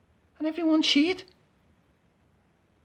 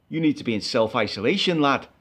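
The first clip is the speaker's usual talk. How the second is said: lightly voiced driver; 6 semitones lower than usual. Driver voiced in retold quarrel.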